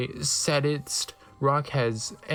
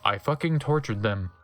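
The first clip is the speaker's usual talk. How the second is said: low villain voice; 5 semitones lower than usual. Acted.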